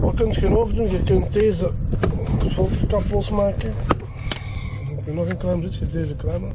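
windy outdoor recording; wind on mic. Real, not acted. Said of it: "Sorry voor de wind".

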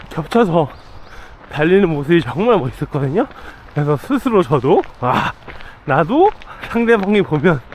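talking while jogging; breathy voice mid-run; while running. Real, not acted. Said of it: "데일러닝을 나왔습니다". (달리면서 말하기)

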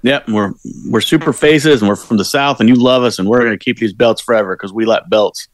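mock babyface promo. To co-host, parodying the tag team's promo: mock hyped babyface voice. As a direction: parody a wrestler's cheesy face promo, a bit pumped up. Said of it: "Like, you nailed it".

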